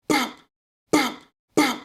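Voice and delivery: high, punchy "bop" for each hit; sharp mouth-made punch noises; imitated blows. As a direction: mimic thuds with separate popped bops. Retelling the beating he overheard.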